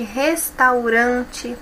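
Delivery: "Restaurante" very slow, "ran" stressed; slow stressed demo. Shown as a demonstration. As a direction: stretch "Restaurante" out, leaning on "ran". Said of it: "penúltima". ("Restaurante" bem devagar, com força no "ran")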